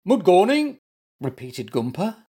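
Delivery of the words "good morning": "Good morning" said as "mood gorning", high and loud; muddled first sounds. A narrator's reading. Bear wakes and greets zebra, "Good morning" muddled as "mood gorning".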